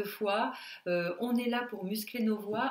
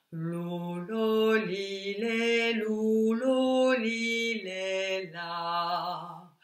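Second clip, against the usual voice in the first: deepest possible voice; 4 semitones lower, much slower than usual. Shown as a demonstration. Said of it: "Pour les graves".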